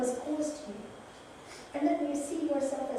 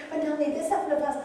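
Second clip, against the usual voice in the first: imitating complainer; 4 semitones higher, 5 dB louder, much faster than usual. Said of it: "people come to me".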